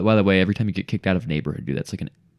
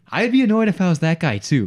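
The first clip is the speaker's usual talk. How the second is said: emphatic; 10 semitones higher, 6 dB louder than usual. Real, not acted. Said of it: "honestly, I'm like".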